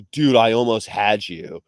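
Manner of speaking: slow, lightly put-on California accent; drawled California dude accent; Paul Walker. Fan quoting a racing movie, light California accent. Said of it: "Paul Walker's the most American accent".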